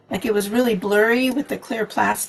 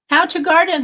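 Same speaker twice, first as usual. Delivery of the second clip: excited greeting; 8 semitones higher, 6 dB louder than usual. Real, not acted. Greeting viewer by name.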